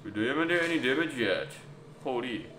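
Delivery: put-on French accent; lightly hammed French accent. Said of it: "I start to enjoy the French accent".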